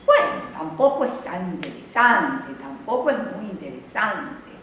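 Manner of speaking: "interesante" left hanging, no final fall; suspended intonation. Shown as a demonstration. Teacher showing students a reply that hangs in the air, suspended intonation. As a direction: let the reply trail off unresolved. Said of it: "esa entonación suspendida".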